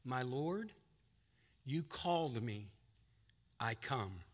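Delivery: a gentle, low-key read of the dying man's reply; spoken softly. A narrator's reading. Reading Faramir's words to the king, softly and fading. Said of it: "and he spoke softly".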